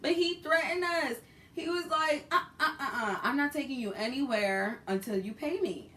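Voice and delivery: high, loud, laughing retelling; half-laughing, high and loud; laughing through it. Real, not acted. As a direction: laugh while you quote the threat. Laughing while retelling threat.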